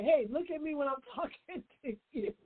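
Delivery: a half-laughing, pushy call for attention; mock bossy demand with a laugh in it. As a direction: play the rude way to demand eye contact, lightly. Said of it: "You don't have to say it like that".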